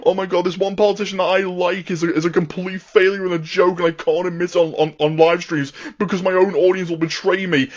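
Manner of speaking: high whiny childish mockery. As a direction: mimic a whining child. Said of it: "You sound like a whiny fucking child who's going".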